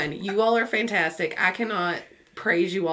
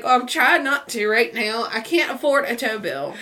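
higher, mock-distressed pleading; retold near tears; 4 semitones higher, 4 dB louder than usual. Driver told not to cry over a tow, mock near tears. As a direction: protest as if about to cry. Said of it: "I'm gonna cry".

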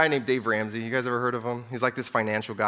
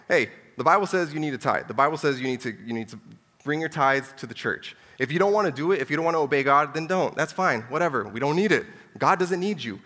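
imitating Pastor Steve; 3 semitones higher than usual. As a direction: play the blunt pastor who dares you not to give. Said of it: "he's just like".

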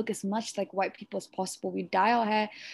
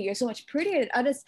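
mock whisper; 2 semitones higher than usual. Mimics people flattering her.

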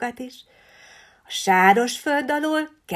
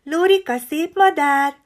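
put-on a touch higher, coaxing old lady; coaxing the parrot; 5 semitones higher, 7 dB louder than usual. A narrator's reading. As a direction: teach the bird its words gently. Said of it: "mondjad szépen".

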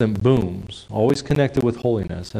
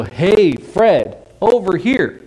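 high loud call across the room; hailing a friend over the crowd noise; 9 semitones higher, 5 dB louder, much slower than usual. Acted. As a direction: shout to a friend at a party. Calling across a party.

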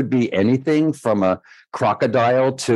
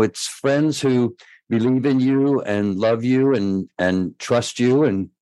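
getting emotional; slower than usual. Real, not acted. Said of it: "I get emotional".

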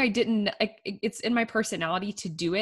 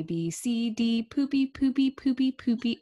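put-on higher, sing-song little kid chanting; imitating her toddler; 5 semitones higher, slower than usual. Mom imitating her daughter chanting a silly word, sing-song. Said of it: "she'd be say".

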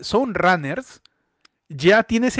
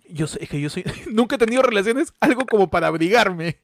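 mocking cold-person quote; 3 semitones higher than usual. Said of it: "la de".

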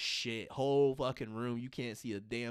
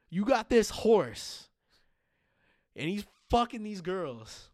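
higher, louder, slow disbelief; higher, louder incredulous rant; 9 semitones higher, 6 dB louder than usual. Real, not acted. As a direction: build up the absurd question. Ranting about BoJack logic.

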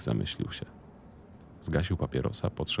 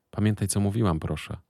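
higher, louder call after the leaving son; calling after him; 4 semitones higher, 4 dB louder than usual. Acted. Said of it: "krzyknęła za nim". (matka woła za wychodzącym synem)

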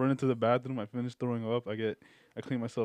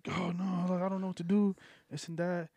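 tag-along cousin voice; 5 semitones higher than usual. Retold or imitated. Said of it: "he's just like".

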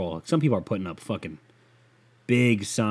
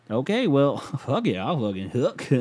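Jerry Jones impression, cracking up. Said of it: "I can't do a good Jerry Jones".

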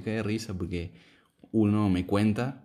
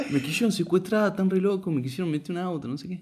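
mock crazed drunk; 10 semitones higher than usual. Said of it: "Estoy re loco".

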